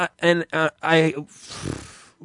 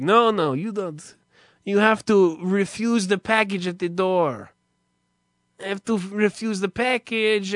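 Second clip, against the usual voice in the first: vendor guy voice; 3 semitones higher than usual. Retold or imitated.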